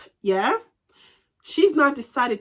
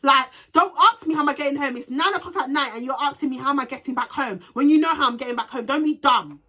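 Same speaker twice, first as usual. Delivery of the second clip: mildly heated retold telling-off; exasperated, rattled-off scolding; cussing her out; 3 semitones higher than usual. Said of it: "I'm pissed off and I'm cussing her out".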